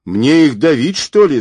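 loud, high, exasperated retort; yelling. A narrator's reading. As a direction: yell it as an indignant question. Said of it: "заорал шофёр".

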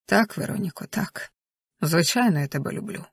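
soft, lightly voiced tender reassurance. A narrator's reading. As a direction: confess love softly, letting it sink away. Tender love confession in the story.

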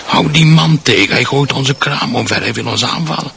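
alarmed cry of a market vendor; retold yelling. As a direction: shout it as they did at the market, fading by the end. Retelling market stall holders yelling.

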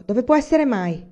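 husband still shouting for his lost hat; impatient shout. Acted. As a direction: keep yelling for the hat. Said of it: "gridò".

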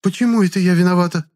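high, loud woman's voice flaring up. A narrator's reading. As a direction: snap back in outrage. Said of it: "взвилась Клара".

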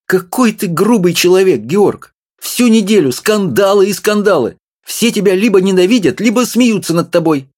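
high, fussy little woman scolding; wife's voice. A narrator's reading. Small wife scolding her husband, high and fussy. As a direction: nag him in a high voice.

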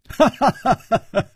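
high, easy hearty laugh; leisurely laugh. A narrator's reading. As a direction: laugh it off at ease. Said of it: "楚留香悠然说". (悠然大笑)

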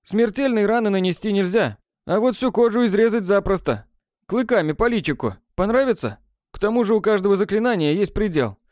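a lightly voiced boy, spooky then slowing at the end; grim warning. A narrator's reading. A boy warning friends of the pack, lightly voiced. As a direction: scare them a little, then trail off doubtful. Nadadukh warns of werewolves.

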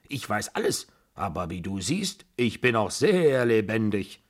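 lightly voiced indignant old lady; a hint of a domineering grandmother, triumphantly alive; imperious old aunt.

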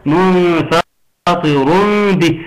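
"منفطر به" chanted, final noon turned into a held m before b; iqlab recitation. Shown as a demonstration. Teacher pointing out the small meem, iqlab recitation of "منفطر به". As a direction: hum an m going into "به". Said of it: "إقلاب، علامة الإقلاب".

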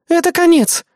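high, loud cry of doom; exclaiming. Acted. Assistant Eris shrieks at Casanova trapped, loud alarm. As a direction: throw up the alarm. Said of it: "воскликнула Эрис".

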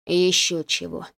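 rasping refusal with a faked cold; hoarse rasp. A narrator's reading. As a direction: croak it out hoarsely. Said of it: "прохрипел Анатолий".

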